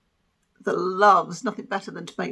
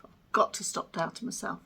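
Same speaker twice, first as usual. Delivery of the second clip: whispered self-pep talk; 6 dB quieter than usual. Shown as a demonstration. She whispers her resolution to herself as a whisper. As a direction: repeat it under your breath as a whisper.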